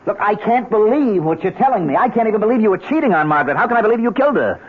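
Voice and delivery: pleading disbelief, voice rising. Acted. Inspector refusing to believe his friend killed his wife, rising and agitated. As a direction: pitch climbs in agitated disbelief.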